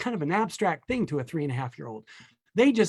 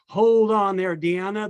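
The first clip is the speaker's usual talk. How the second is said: teacher's correction; 5 dB louder than usual. Acted. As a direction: call out to halt a student.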